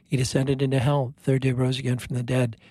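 measured, even recitation of a creed; recited prayer. Real, not acted. Priest leading radio listeners in the Creed, recited prayer. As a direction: recite it steadily, as a practised communal prayer.

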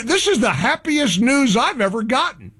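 deadpan fake delight; mock joy. Host pretending to cheer the network boycott, sarcastic delight. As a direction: say it like it's the best news ever, not meaning it. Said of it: "capture my sarcasm".

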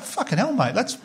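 retelling a stunned reply to a pricey quote; incredulous outburst. Retold or imitated. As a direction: scoff at the price like it's a joke. Mocking an overpriced Batman offer.

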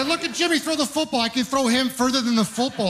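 high, gushing mock parent; bragging about little Jimmy's throw; proud parent. High mock parent gushing about his kid.

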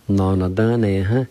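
"No, no, done, eh, huh" run together as one word; careful teacher's repeat of "No, no, done, eh, huh"; whole-word pronunciation demo. Shown as a demonstration. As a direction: model "No, no, done, eh, huh" without breaks. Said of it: "I'll pronounce it one more time".

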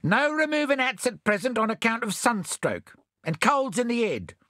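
very high, hurried refusal; bell topperer. A narrator's reading. First bell topperer refuses Bill, high and hurried. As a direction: squeak out a refusal. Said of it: "said the first bell topperer".

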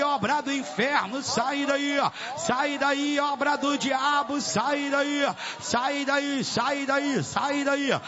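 insistent, chant-like repeated expulsion commands; exorcising command. Real, not acted. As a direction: drive the demon out in relentless high bursts. (ordem de expulsão, insistente e cadenciada)

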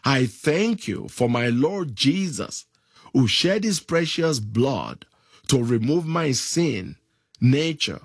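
led prayer. Shown as a demonstration.

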